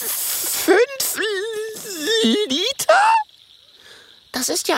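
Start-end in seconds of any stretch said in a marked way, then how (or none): 0.0-2.9 high, halting, gulping question; stammering in shock. Acted. Dragon hears he must give five liters, high stammered shock. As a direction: stutter it out in dismay. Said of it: "Er schluckt und stottert".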